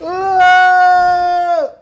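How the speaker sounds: long, high, loud cry of frustration; frustrated yell. Real, not acted. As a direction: let out a drawn-out angry yell. Tilted after failure.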